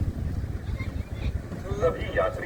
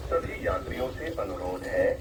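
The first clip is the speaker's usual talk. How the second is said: airport announcement. Real, not acted. Temple loudspeaker repeats announcement.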